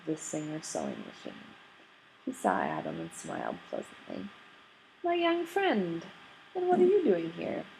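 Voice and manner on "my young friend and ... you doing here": put-on hearty older salesman. Mr Green of Singer hailing Adam at the next table, jovial and high. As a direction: boom a cheery surprised hello.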